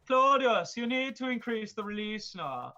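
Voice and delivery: high, loud, hammed-up Latin accent, slow on Claudius; mock Latin accent. Roman talking to Claudius, hammed-up Latin accent. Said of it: "I don't know if that's a Latin accent".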